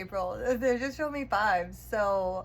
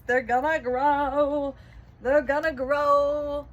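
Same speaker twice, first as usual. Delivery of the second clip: louder, slow and firm, driving it home; loud emphatic promise; 4 semitones higher, 7 dB louder, slower than usual. Real, not acted. Reader promising viewers their seeds will grow, loud and slow.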